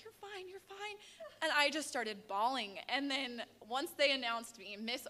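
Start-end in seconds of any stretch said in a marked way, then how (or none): 0.0-1.0 high, soft imitated comforting; gentle high-pitched mock consoling; retold reassurance. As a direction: soothe a crier in a high, quiet voice. Retold friend comforting the crying winner.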